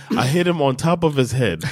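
laughing while joking. Real, not acted. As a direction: giggle through the made-up brag. Joking as the lineman, cracking up.

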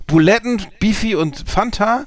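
can't believe what he's hearing; incredulous outburst. Real, not acted. Incredulous at the diet.

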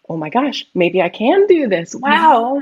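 thrilled gasp building to a high, loud wow; a rush of hopeful excitement rising to the last word; excited. Retold or imitated. To her friend after sensing the spirit, rising excitement. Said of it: "Not only am I excited".

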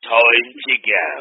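playful slow-motion sign-off; slow drawn-out repeat. Pretend. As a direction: stretch each word of "Time to go". Slow put-on repeat before signal.

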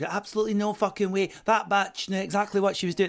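mock Glaswegian girl, high-pitched; Glasgow accent. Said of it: "the accent is on point".

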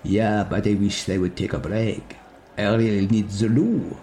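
lightly voiced, slow Henry; Henry drawling that he needs the loo; Henry's voice. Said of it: "Henry ... says".

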